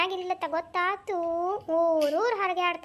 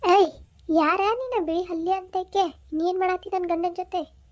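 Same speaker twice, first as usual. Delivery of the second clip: angry wife; 6 dB louder than usual. Acted. Wife confronts husband's lover.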